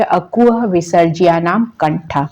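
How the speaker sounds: slow recitation falling at the end; teacher reciting a Sanskrit sutra; sutra to memorise. Shown as a demonstration. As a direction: recite it slowly for rote learning. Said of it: "तो ये सूत्र आप याद कर लीजिए".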